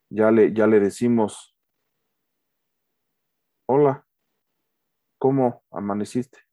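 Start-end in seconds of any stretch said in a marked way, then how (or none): 3.7-6.4 flat serious greeting; more serious tone. Shown as a demonstration. Husband greeting his wife, now serious and indifferent. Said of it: "Ya es un tono más serio".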